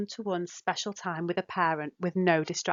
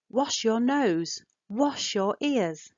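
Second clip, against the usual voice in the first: slow, stressing "nose" and "ears" with a falling tune; stress key words; 4 semitones higher, much slower than usual. Shown as a demonstration. Parent at bath time to child, slow with "nose" and "ears" stressed. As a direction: stretch out "wash your nose," "wash your ears" slowly and lean on the last word. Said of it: "you could stress key words".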